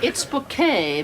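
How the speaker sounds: bouquet said boo-KAY with stress on the second syllable; insisting on bouquet. Retold or imitated. Hyacinth correcting the caller, stressing boo-KAY. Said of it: "The accent on the second syllable".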